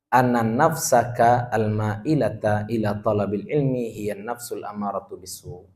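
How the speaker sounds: slow, measured reading of Arabic text; kitab recitation. Acted. Teacher reads Arabic text slowly.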